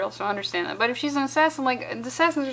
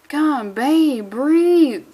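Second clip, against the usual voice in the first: mock plea; 3 semitones higher, 5 dB louder, much slower than usual. Mocking the comic's dialogue.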